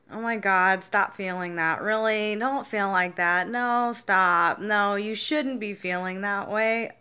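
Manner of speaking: loudly mock someone telling you to stop feeling that; loud dismissive scolding. A friend dismissing her feelings, loud and exasperated.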